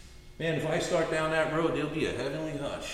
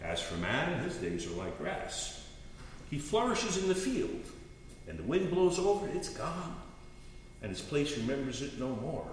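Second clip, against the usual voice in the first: quiet scripture reading; 6 dB quieter than usual. Shown as a demonstration. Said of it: "That's the part he said".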